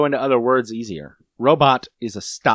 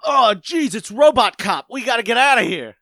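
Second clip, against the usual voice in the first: mock panic; 6 semitones higher than usual. Panicked bystander fleeing.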